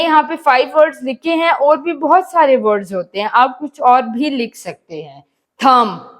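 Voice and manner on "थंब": "थंब" with the final B left silent. Shown as a demonstration. Teacher reads out an example word, "थंब" with silent B. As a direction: say "थंब" ending on M, B unsounded. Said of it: "बी silent है".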